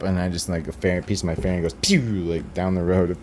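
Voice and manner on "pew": falling "pew" noise; imitated flying debris. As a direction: whistle out a cartoon pew.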